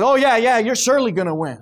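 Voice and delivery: sarcastic agreement, lifted at the start; mock-enthusiastic yes, falling back. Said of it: "he must have sensed the sarcasm in him".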